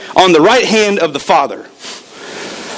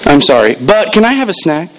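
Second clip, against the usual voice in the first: mock kid apology. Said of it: "This is how the apology went. Ready?".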